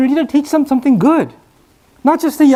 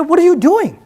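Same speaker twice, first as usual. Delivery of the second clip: higher-pitched mock telling-off, not shouted; retold scolding yell; 5 semitones higher than usual. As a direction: scold the younger ones with mild indignation. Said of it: "the older companions yelled at the younger ones".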